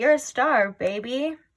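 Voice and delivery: slow, stretched-out drag-show host voice. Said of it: "it sounded like RuPaul's voice".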